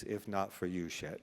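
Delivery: fighting back tears as the thanks overwhelms him; choking up. Real, not acted. Thanking his longtime psychiatrist at an award speech, choked up. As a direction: voice catching and dropping away into tears. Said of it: "Just give me a minute".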